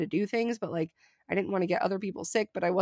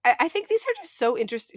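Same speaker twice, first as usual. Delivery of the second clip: cracking, strained sick voice; 5 semitones higher than usual. Real, not acted. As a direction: voice breaking mid-word. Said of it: "sorry, my voice is cracking".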